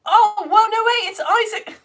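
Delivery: high, loud burst of amused surprise; delighted greeting breaking into laughter; amused, laughing. Real, not acted. Spotting a new viewer's first lesson, amused and laughing. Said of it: "I'm laughing because".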